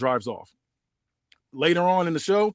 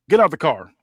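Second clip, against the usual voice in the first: firm, louder cop command; stern cop order; 7 dB louder than usual. Acted. Cop ordering the driver out of the car, firm and loud.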